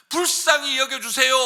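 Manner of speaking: loud, high pleading cry to God; crying out in prayer. Shown as a demonstration. Preacher modelling a desperate cry to God, loud. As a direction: shout the prayer up to heaven. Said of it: "하고 소리치라는 것입니다".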